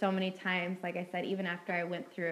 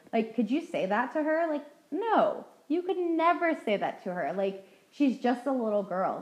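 a sharply higher, louder insistent no; emphatic no; 6 semitones higher, 4 dB louder than usual. Real, not acted. Speaker urges listeners to be kind to their younger selves, emphatic. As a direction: plead that no one could say that.

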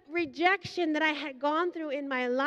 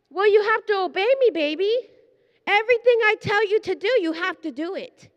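brisk, louder and higher, God speaking firmly to her; quick, raised fatherly command; 3 semitones higher, 5 dB louder than usual. Retold or imitated. Preacher voicing God commanding her to obey, brisk and loud.

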